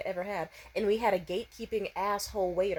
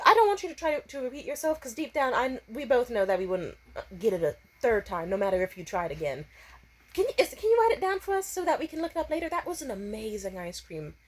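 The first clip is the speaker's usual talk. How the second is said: overly polite; 2 semitones higher than usual. Retold or imitated. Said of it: "or I said it much nicer".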